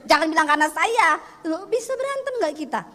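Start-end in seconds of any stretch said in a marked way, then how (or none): 0.0-1.1 blunt retort. Retold or imitated. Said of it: "saya orang Sulawesi dikit saya bilang".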